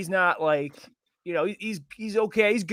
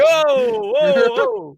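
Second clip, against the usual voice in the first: high, loud, startled squeal; mock startled squeal; 6 dB louder, much slower than usual. Mocking a friend caught out, high startled squeal. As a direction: squeal in fake surprise. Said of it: "You're like".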